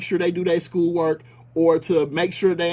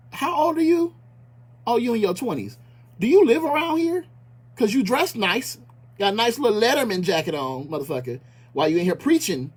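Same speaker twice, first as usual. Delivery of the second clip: forceful confrontation; 2 semitones higher than usual. Retold or imitated. Confronting the young speaker at the meeting, a hammed-up angry challenge. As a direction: call him out to his face, hammed up. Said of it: "I didn't say it this forcefully".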